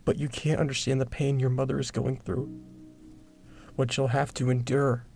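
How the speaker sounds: put-on grieving, anguished farewell to a baby; sorrowful, pleading explanation in an altered voice; tearful confession. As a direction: confess it through held-back tears. Tearful farewell to baby before killing.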